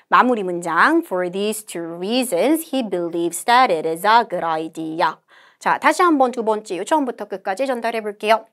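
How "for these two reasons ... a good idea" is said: slow, measured English recitation; model read-aloud. Shown as a demonstration. Teacher models the conversation summary, slow deliberate reading. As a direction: read it out slowly, phrase by phrase.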